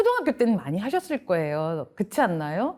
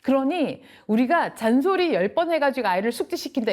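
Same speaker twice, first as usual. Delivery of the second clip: usual speaking voice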